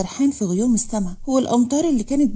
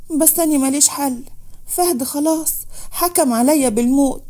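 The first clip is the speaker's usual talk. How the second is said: higher, tearful plea; speaking through tears; 4 semitones higher than usual. Acted. Manal tells Rahma through tears, pitched up. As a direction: let the tears push the pitch up. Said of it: "اتكلمت منال بدموع".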